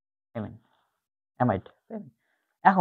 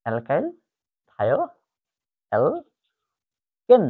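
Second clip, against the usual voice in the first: slow; much slower than usual. Shown as a demonstration. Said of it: "এর উচ্চারণটা হচ্ছে".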